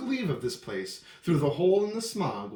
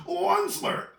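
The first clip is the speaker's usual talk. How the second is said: croaking cry. A narrator's reading. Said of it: "he cried with a cruffulous croak".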